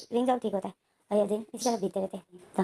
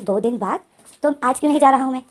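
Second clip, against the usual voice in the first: surprised protest; 3 semitones higher, 10 dB louder than usual. Acted. Protesting being made to wait.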